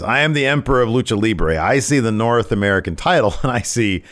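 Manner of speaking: mock-imperious wrestler; Santos. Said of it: "He says".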